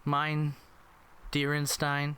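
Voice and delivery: lightly hammed-up German mother; mock German accent. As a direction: fake German endearment from a mom. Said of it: "This is how German people talk".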